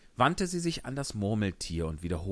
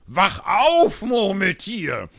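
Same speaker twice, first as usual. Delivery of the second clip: high, loud shout to wake the dormouse; loud wake-up call; 13 semitones higher, 12 dB louder, much slower than usual. Acted. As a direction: yell to rouse the sleeper. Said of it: "kniffen sie es". (laut und hoch gerufen)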